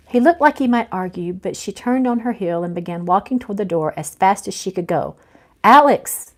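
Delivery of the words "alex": loud high call across the room; calling out, louder and higher; calling after her. Acted. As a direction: call her name as she walks away. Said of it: "he called after her".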